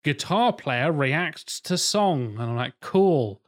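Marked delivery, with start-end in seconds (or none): 0.0-2.3 slow, higher mock video-title voice; scornfully drawn-out headline. Ranting podcaster reads out a reaction video title, mocking. 2.8-3.4 mock-impressed, then exasperated; sarcastic heckle at a video; sarcastic rant. Fed-up viewer answers a guitar player's reaction video, sarcastic.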